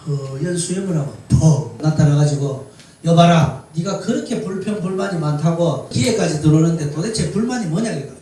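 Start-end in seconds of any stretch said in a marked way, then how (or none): 3.0-7.9 put-on a commanding old spirit, booming on the call; mountain spirit voice. Spirit confronting the grumbling young man, booming and commanding.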